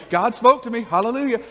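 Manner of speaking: a loud burst of joyful praise; excited praise. Retold or imitated. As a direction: shout it out like a fired-up believer. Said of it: "You're gonna be like".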